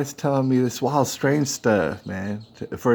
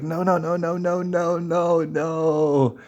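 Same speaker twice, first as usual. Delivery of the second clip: higher-pitched, rapid string of no's; retold pleading; 6 semitones higher, slower than usual. Crying woman begs him not to get police, pleading. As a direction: imitate a panicked woman begging him not to.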